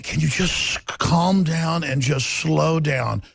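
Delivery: slow, measured mock radio calm; drawn out like a soothing host; slow calming request. Imitating NPR staff asking him to slow down, slowly. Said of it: "they'd ask me".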